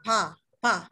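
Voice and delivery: pa with a light, puffed P-like start; touch lips lightly for pa; thin lip closure. Shown as a demonstration. Teacher drilling the thin closure, airy pa. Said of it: "tipis aja".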